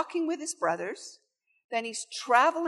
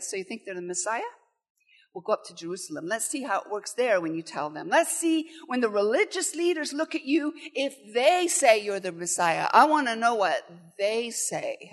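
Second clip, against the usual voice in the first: mocking brothers. Shown as a demonstration. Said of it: "It's like".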